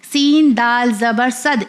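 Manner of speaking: slow demo, echoing d at the end of صد; صد closed with a pressed, repeated d sound; qalqalah on صد. Shown as a demonstration. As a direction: bounce the last d of صد. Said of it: "اسے کلکلا بھی کہا جاتا ہے".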